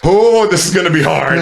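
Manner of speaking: high, anxious self-talk; retold mini panic. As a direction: act out rising nerves. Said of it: "a little mini panic, panic attack".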